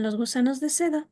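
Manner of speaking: "Los gusanos de seda" starting low, holding level, then rising; low-start rising tune. Shown as a demonstration. Teacher demonstrating statement intonation to class, low start then rise. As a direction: begin low on "Los gusanos de seda", hold, lift at the end. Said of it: "empieza de un tono bajo, se mantiene y luego vuelve a subir".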